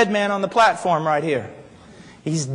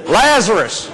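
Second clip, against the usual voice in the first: hammed-up summons, pushed a little louder; mock commanding call; 3 dB louder than usual. Two preachers taking turns at Lazarus' tomb, mock commanding call. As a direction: have another go at calling out the dead. Second try at calling Lazarus out.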